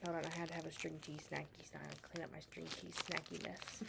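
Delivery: talking with hiccups; hiccupping between words. Real, not acted. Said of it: "I got the hiccups".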